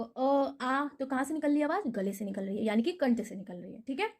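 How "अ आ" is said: अ then आ, held open from the throat; demo vowels. Shown as a demonstration. Teacher showing students how to voice अ and आ from the throat. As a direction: say अ and आ clearly from the throat. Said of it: "अब आप बोल के देखो".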